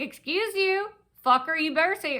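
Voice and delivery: retold high-pitched indignant "excuse you"; indignant retort. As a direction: start high, mock-offended, then drop. Retells her own angry retort.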